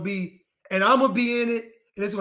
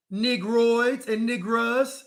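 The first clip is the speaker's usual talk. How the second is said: slow address; much slower than usual. Real, not acted.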